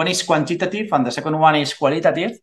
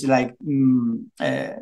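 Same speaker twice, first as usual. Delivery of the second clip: translating in head; 3 semitones lower, 4 dB quieter, much slower than usual. Real, not acted. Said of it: "I don't know the word in English".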